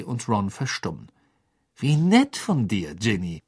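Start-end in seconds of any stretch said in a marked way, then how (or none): 1.8-3.4 sour. Acted. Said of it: "sagte Ron säuerlich".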